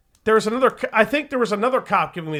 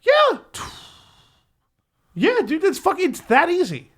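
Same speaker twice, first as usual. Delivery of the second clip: high, emphatic yeah; 8 semitones higher than usual. Real, not acted. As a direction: pitch it up in emphasis. Emphatic agreement.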